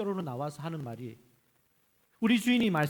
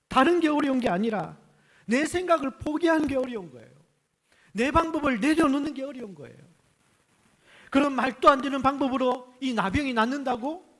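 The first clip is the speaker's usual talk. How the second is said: impassioned; 8 semitones higher, 7 dB louder than usual. Real, not acted. Preacher's impassioned point.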